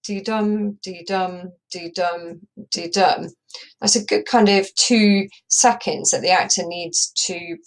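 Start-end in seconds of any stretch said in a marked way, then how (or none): 0.0-3.3 do-dum tapped out as beats; counting beats. Shown as a demonstration. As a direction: count the missing beats aloud. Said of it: "by the time you count do-dum".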